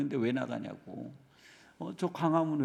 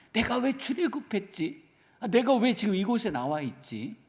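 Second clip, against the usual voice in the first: grumbling Israelites; 5 semitones higher than usual. Retold or imitated. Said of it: "이러한 불평으로 가득한 거예요".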